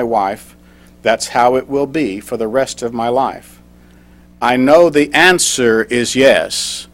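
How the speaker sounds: slow, measured poem recital; deliberate spoken verse with pauses between lines; proposal poem reading. Acted. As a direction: read your love poem line by line, unhurried. Reads his proposal poem aloud.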